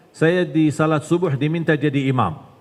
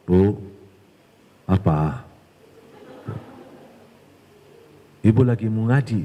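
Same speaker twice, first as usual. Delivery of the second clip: Satan's voice; 7 semitones lower than usual. Acted. Preacher voices Satan tempting mother.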